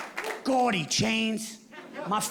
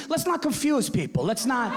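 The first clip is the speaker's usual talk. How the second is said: dad on the phone; 3 semitones higher than usual. Retold or imitated. Dad voiced.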